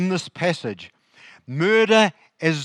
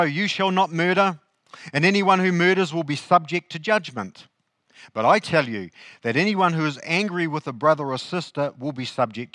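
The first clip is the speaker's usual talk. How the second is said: measured, lightly raised Bible reading voice; scripture reading. Acted. Pastor reads the verses to the congregation in a reading voice. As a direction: read the passage out to the church. Reads Matthew five aloud.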